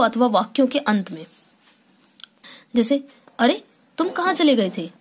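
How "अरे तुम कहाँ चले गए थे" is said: surprised question. Shown as a demonstration. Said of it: "हमें आश्चर्य हो रहा है".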